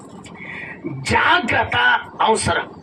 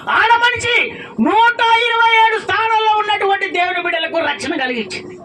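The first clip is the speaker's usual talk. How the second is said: forceful preaching; 5 semitones higher than usual. Real, not acted. Preacher telling how Queen Esther saved the people, forceful preaching.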